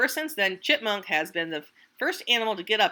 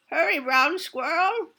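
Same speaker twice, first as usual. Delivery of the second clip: higher, urgent calling out; grandmother calling; 8 semitones higher, 4 dB louder than usual. Acted. Grandmother calls squirrel to the burrow, higher and urgent. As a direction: call him home, urgent. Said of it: "she called".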